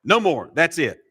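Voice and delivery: a hint of a fed-up father ending it for all; exasperated dad. Preacher mimicking a dad punishing all the kids for one. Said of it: "that's the way that us dads like to solve problems".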